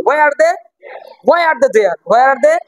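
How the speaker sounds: quick, joined-up model question; said quickly. Shown as a demonstration. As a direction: run the words together briskly. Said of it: "পরে ওটাকে তাড়াতাড়ি বলো".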